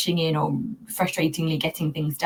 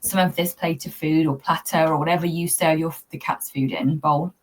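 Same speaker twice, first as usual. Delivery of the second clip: gentle coaxing to the cat. Shown as a demonstration. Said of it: "speak to Leo and say to him".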